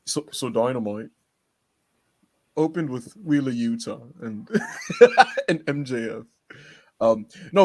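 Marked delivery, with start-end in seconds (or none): 0.1-4.5 lightly put-on co-host voice, accented vowels; a hint of mock accent on the vowels; Monty impression. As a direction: lightly mimic a co-host's way of talking. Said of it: "I could do a pretty good Monty".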